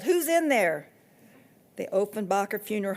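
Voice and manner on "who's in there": loud, high yell after the hearse; girl yelling at the hearse as she runs. A narrator's reading. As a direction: shout it while running. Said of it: "I yelled".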